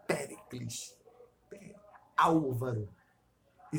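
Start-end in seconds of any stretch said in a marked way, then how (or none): 0.1-1.0 Péricles with the beat on its opening "Pé"; stress on first syllable. Shown as a demonstration. Explaining proparoxytone names to a friend, first-syllable stress on Péricles. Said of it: "começam já na sílaba tônica". 2.2-2.9 Álvaro hit on the opening "Ál"; stress on first syllable. Shown as a demonstration. Showing a friend the name's tonic syllable, first-syllable stress on Álvaro. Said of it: "começam já na sílaba tônica".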